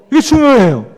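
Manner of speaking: usual speaking voice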